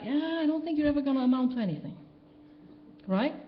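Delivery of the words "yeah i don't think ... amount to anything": fast, offhand put-down; rattled-off dismissive remark; dismissive teacher. Retold or imitated. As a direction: brush them off quickly, like a jaded teacher. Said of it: "your teachers who said, like".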